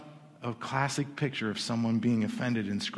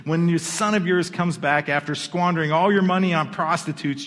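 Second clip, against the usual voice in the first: raised, accusing complaint; angry older brother; 4 semitones higher, 5 dB louder than usual. Acted. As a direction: throw the accusation at the father, pitched up. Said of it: "The older brother was angry".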